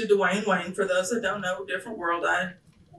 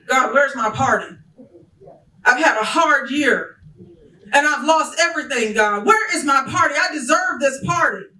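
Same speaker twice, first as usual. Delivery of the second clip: whiny complaint; 4 semitones higher, 3 dB louder than usual. Retold or imitated. Job complains to God.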